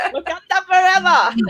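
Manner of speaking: high, loud mock rallying shout; film battle cry. Fan at home watching Black Panther, high mock war cry. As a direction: holler it like a fan cheering at the screen. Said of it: "I sit there going".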